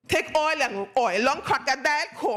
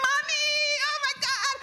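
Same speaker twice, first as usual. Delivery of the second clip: put-on children's surprise; 11 semitones higher than usual. Children think mother is back.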